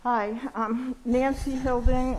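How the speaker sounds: muffled by a face mask; talking through a mask. Real, not acted. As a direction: speak through a mask over the mouth. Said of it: "Can you hear me with my mask on?".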